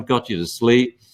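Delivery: ordinary delivery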